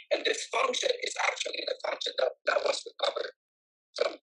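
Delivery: breaking up, robotic phone line; glitchy warbling connection; warbling call audio. Real, not acted. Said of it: "Your voice is, uh, warbling away from us".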